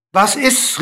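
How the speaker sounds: high questioning call, rising sharply. A narrator's reading. King waiting on the dwarf's fall, calling out. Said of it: "rief der König".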